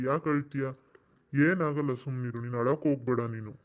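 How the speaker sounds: low, gentle reassurance; consoling. Acted. An elder consoles the crying girl Rukku, low and gentle. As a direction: soothe her, low and steady.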